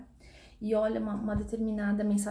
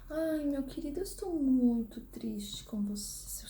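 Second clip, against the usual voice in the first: mock sweet tone; 3 semitones higher, slower than usual. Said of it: "eu não vou virar pra vocês e falar assim".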